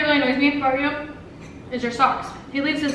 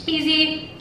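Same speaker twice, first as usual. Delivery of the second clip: burp while talking; word broken by a burp. Real, not acted. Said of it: "I'm burping".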